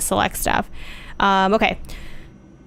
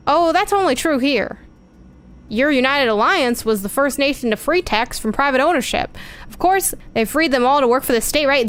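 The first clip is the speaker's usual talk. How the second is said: higher-pitched retort in character; lightly voiced, pointed game character; 4 semitones higher than usual. Tech retorting about the United Alliance, lightly voiced. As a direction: voice a character pushing back, pitched up.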